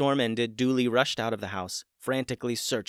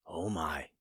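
shocked; 4 semitones lower, 6 dB quieter than usual. A narrator's reading. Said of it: "Dooley had a shocked look".

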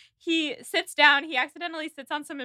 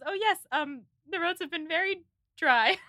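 halting, awkward small talk; Hugh Grant; 4 semitones higher than usual. Retold or imitated. Edward answering about the weather, haltingly awkward. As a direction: lightly imitate a flustered, hesitating Englishman. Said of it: "In the most Hugh Grant way possible".

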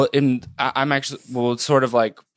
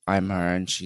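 talking like the ghost; 6 semitones lower, 6 dB quieter than usual. Acted. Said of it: "You're kinda talking like her".

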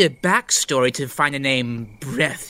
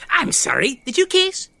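mock surprised question; 11 semitones higher than usual. Stir Fry asks, surprised.

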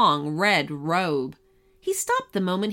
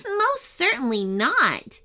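cross; 7 semitones higher than usual. Acted. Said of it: "with a hint of crossness in her voice".

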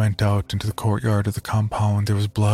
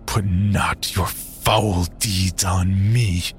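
spat; much slower than usual. Acted. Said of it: "I spat".

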